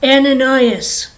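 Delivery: slow, loud call of the Lord; lightly voiced God, calling out slowly. The Lord calls Ananias in a vision, God voice. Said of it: "The Lord said to him".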